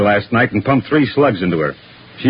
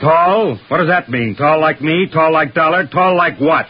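rapid-fire questions, pitched higher; raised voice; 4 semitones higher than usual. Acted. Detective hammering a vague witness for a description, exasperated. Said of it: "I'm sorry I'm raising my voice".

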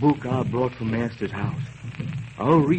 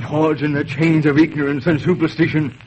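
louder, building to a vehement declaration; rising anger; 4 semitones higher, 4 dB louder than usual. Acted. Toussaint railing against voodoo to his wife, rising anger. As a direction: denounce voodoo with growing passion.

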